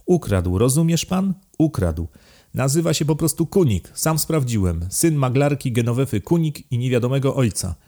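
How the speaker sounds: high-pitched, incredulous rant; outraged aristocrat, questions leaping high; indignant outburst. A narrator's reading. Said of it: "wrzasnął hrabia".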